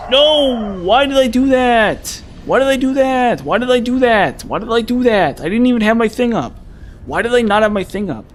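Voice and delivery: high anguished wailing at the game; despairing wail. Real, not acted. Streamer wailing at a dumb death, high and anguished. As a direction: wail it out in disbelief.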